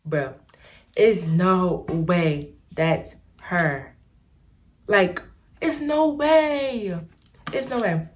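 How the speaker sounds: stunned disbelief. Retold or imitated. Seeing the girl in line at the new school, slow stunned disbelief. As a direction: stretch out the disbelief. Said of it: "I'm looking, I'm like".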